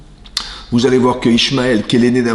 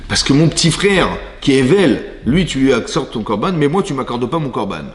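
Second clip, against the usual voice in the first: mildly aggrieved protest; 2 semitones higher than usual. Acted. Caïn complains to Hachem that his little brother was favoured, mildly aggrieved.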